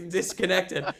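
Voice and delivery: flustered rambling. Retold or imitated. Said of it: "my eyes go wide".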